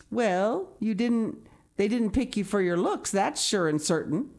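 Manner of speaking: matronly, emphatic comment. A narrator's reading. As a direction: deliver it as a blunt, emphatic verdict. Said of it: "Miss Rachel Lynde's emphatic comment".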